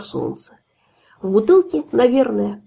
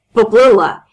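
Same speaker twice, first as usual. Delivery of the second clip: put-on drunk cry; 2 semitones higher, 7 dB louder than usual. Drunk host cheers bottle away.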